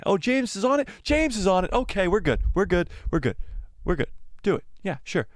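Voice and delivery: instantly sold on the name; Kathleen Kennedy suddenly thrilled. Retold or imitated. Studio boss approving a pitch, mock-delighted. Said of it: "my Kathleen Kennedy impression".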